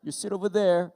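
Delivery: re-enacted father won over; melting dad. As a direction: give in fondly to your kid. Father melts at daughter's answer.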